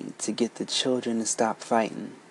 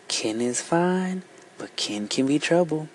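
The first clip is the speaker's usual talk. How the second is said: intoned proverb; 3 semitones higher than usual. Acted. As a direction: intone it like an old saying. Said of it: "Pat intoned".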